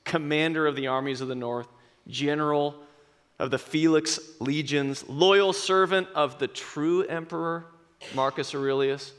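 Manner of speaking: a hint of Russell Crowe's grave defiance; Maximus speech. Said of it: "And he says".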